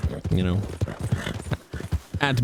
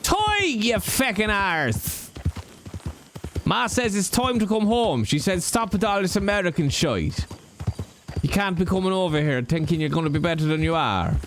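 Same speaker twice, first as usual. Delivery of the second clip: put-on higher Irish accent, scolding his brother; Toig's brother; 4 semitones higher than usual. Toig's brother tells Toig to come home, higher Irish accent. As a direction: bellow the name, then nag in Irish. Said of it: "I played Toig's brother".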